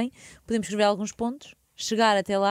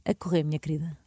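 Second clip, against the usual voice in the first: sultry voice; 3 semitones lower than usual. Pretend. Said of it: "uma voz sensual e calma".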